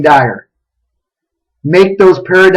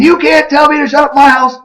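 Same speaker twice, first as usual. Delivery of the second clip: high-pitched, indignant scolding; mock indignant dad; 9 semitones higher than usual. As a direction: retell a dad's outraged telling-off. Father scolding daughter in story.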